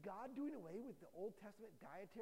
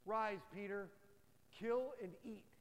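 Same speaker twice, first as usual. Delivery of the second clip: booming voice of God; 4 dB louder than usual. Acted. Voice of God in vision.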